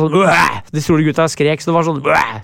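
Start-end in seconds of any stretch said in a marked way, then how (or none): 0.1-0.6 short throwing yell, imitated; brief guttural mock scream; imitated ape roar. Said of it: "Skrik, sånn apebrøl når jeg kastet". 2.0-2.4 short mock throwing scream; contained ape-like yell; imitated ape roar. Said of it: "Skrik, sånn apebrøl når jeg kastet".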